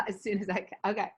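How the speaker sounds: quick hurried phone brush-off; rushing someone off the phone, laughing; dodging a caller. Real, not acted. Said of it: "I'm just gonna tell her I'm gonna call her back".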